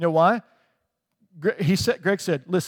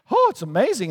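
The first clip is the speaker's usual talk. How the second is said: higher-pitched gush of wonder; mock amazement; 5 semitones higher than usual. Acting out awed reaction to prophecy.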